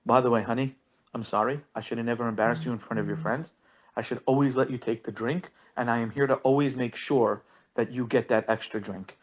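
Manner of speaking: mock sweet apology. Husband imagines his wife's dream apology, softly and sarcastically. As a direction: lay the groveling on thick, quietly.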